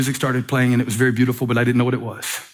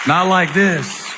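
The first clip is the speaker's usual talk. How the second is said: slow shout; 6 semitones higher, much slower than usual. Real, not acted. Preacher's climactic contrast.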